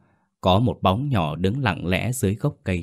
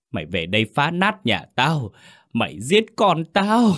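wailing scream; 5 semitones higher than usual. Acted. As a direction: rage and mourn at the dead ghost. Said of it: "Bà gào lên".

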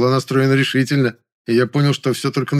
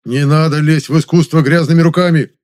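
high, loud indignant outburst; fired-up angry shout; worked-up furious protest; heated outburst; 6 semitones higher, 8 dB louder than usual. Acted. Завадский уже завёлся.

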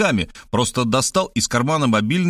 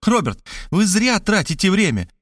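a raised, higher plea, stress on "зря"; mild cry; 8 semitones higher than usual. A narrator's reading. Markhaleva grabbing the phone from Robert, mildly raised cry. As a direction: half-shout it, snatching the phone. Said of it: "закричала".

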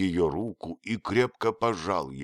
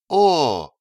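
протяжное высокое недоверчивое «О!»; тянуть с сомнением; протянула недоверчиво; 8 semitones higher, 9 dB louder than usual. Acted. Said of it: "протянула она недоверчиво". (недоверчиво протянуть)

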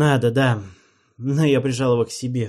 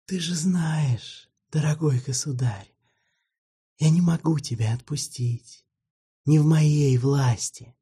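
gentle vampire; 5 semitones higher than usual. Acted. Вампир тихо отвечает королю.

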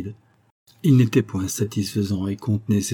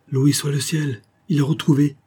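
higher, relieved outburst of joy; joyful cry; 5 semitones higher than usual. Acted. Wife hears her husband is found: higher joyful cry. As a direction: let the relief lift the voice. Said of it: "s'écria Mrs Févral".

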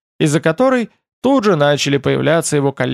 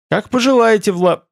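eager higher reply, broken off; cut-off word; 7 semitones higher than usual. A narrator's reading. Servant halted mid-title by the ruler's look, breaking off. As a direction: begin obligingly, then swallow the title. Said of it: "проглотил окончание фразы под взглядом правителя".

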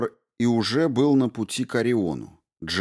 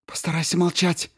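Rao's voice; 10 semitones higher than usual. A narrator's reading. Rao soothes.

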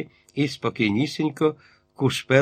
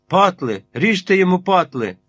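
loud, much higher raging yell; furious shout; 7 semitones higher, 5 dB louder than usual. A narrator's reading. Enraged captain screams at the mob to cut the hair. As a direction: shriek it in a frenzy, up on tiptoe. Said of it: "Він закричав".

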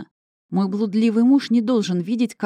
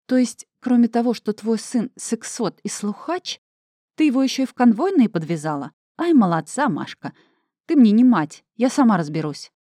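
loud, higher, mocking then shouting; furious outburst; 5 semitones higher, 5 dB louder than usual. Vera shouts at Mashka for sending a guard, furious. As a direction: bite back hard, sarcastic.

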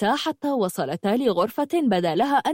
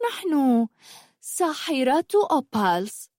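ominous witch; 5 semitones higher than usual. Acted. Witch revealing herself to the girl, ominous pride. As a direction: savour the name.

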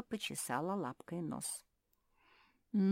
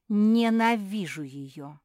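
furious; 4 semitones higher, 12 dB louder, slower than usual. Acted. Beatrice points at Rada, hating.

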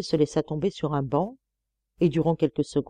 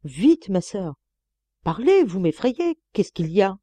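jerky voice; 3 semitones higher than usual. Acted. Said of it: "d'une voix saccadée".

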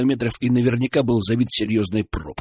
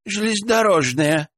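businesslike tone; 9 semitones higher than usual. Acted. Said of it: "сообщила бабка деловым тоном".

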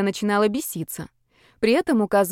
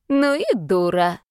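slow, louder bossy shout; shouting old man; 3 dB louder, slower than usual. Acted. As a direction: bark it at him slowly. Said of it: "прикрикнул на длинноволосого". (громкий окрик старика)

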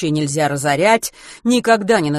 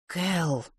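holding back anger, through clenched teeth; through gritted teeth; 7 dB quieter than usual. Acted. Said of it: "процедила сквозь зубы Рут".

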